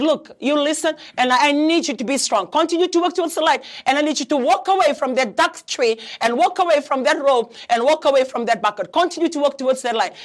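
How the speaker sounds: retold urgent appeal, pressing each instruction; urgent pleading. Counsellor talking a suicidal caller away from the tree, urgent and insistent.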